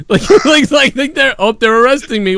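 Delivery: high, cracking up while mimicking They're arresting me; laughing imitation. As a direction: giggle through the mock quote. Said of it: "He goes".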